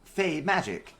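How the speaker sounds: high loud stuttering robot. Acted. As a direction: sputter it like a glitchy robot. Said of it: "my voice changer".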